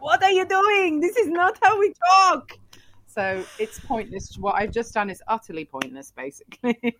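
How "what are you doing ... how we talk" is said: very high, loud mock outrage; hammed-up loud, high objection; protesting Persians. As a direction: cry out in indignant protest. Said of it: "all the Persians are like".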